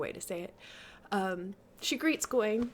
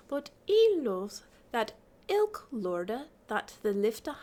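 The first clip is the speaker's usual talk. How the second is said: put-on lilting recitation in old pronunciation; Middle English verse reading; 3 semitones higher than usual. A narrator's reading. Lady teases the sleeper, lilting Middle English recitation.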